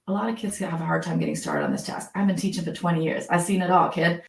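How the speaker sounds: low, easygoing teacher reassurance; normalizing reassurance. Acted. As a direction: reassure a struggling kid, low and matter-of-fact. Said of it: "normalize it".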